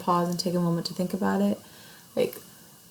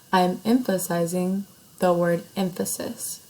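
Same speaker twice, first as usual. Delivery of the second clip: "emphasis" set apart, said slowly and deliberately; stress on emphasis. Shown as a demonstration. Teacher showing students how to emphasize a word, stress on "emphasis". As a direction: lean on the word "emphasis", taking your time with it. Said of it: "not only am I saying it slower".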